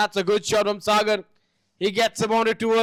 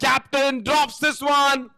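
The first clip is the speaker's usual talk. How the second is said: high, slowed call of a drop; excited cricket commentary; 6 semitones higher than usual. Acted. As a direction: exclaim at the dropped catch. Dropped catch call.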